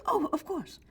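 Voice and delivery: high, sing-song fake innocence; oh-of-course with a mocking lilt; mock sarcastic agreement. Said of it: "He says".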